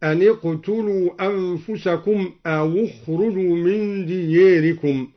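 أو اخرجوا with the joining waw given u, as أوُ اخرجوا; ضم الواو في أو اخرجوا. Shown as a demonstration. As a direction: give the waw of أو an u vowel. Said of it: "بضم أولى الساكنين وهو الواو هكذا".

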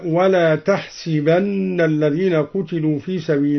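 تحسبن said "tahsibanna", i after the s; kasra on sin. Shown as a demonstration. Teacher showing al-Duri's reading, تحسبن as "tahsibanna". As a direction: recite تحسبن with a short i on sin. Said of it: "وكسر السين".

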